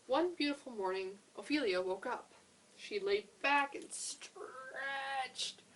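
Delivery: animated storytelling, key words stretched out; picture-book narration. A narrator's reading. Opening Ophelia's story for children, expressive read-aloud. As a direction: read it lively for small children.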